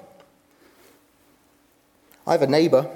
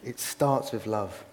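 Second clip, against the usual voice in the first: slow repeat; 5 semitones lower, slower than usual. Shown as a demonstration. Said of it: "repeated for emphasis".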